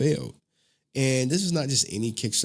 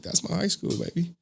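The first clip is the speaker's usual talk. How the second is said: higher-pitched proud dad line; retold showing off to a kid; proud boast; 8 semitones higher than usual. Dad pointing out his old high school to daughter, proud.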